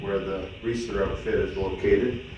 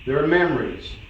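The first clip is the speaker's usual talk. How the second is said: measured cowboy-poem recital, each phrase opening with a lift; poem recitation. Acted. Son recites his mother's poem about her childhood home, measured recital. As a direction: recite it line by line, settling at each phrase end.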